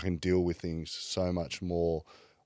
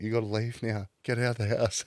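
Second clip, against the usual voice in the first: higher, louder imitation of ordering out; mock angry mum; 5 semitones higher, 6 dB louder than usual. Guest imitates mum kicking him out, mock anger. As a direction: imitate a mum throwing someone out.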